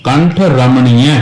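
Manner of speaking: slow ਕੰਠ, then a break before ਰਮਣੀਐ; pause after ਕੰਠ. Shown as a demonstration. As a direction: set ਕੰਠ apart. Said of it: "ਇਹ ਤੇ ਆਕਾ ਵਿਸ਼ਰਾਮ ਦੇਣਾ".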